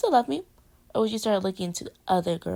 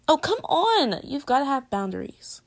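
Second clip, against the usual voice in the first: playful protest; 4 semitones higher, 4 dB louder than usual. Acted. Girlfriend protesting his endless love.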